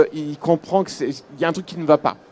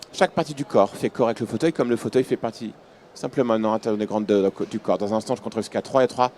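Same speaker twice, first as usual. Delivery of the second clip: hypnotic induction; 3 dB louder than usual. Acted. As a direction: lull them under with steady suggestions.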